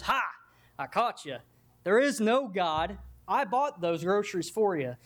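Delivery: lightly voiced triumphant gotcha; spring it on her like a trap; a touch of smug triumph; gloating atheist. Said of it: "and he goes".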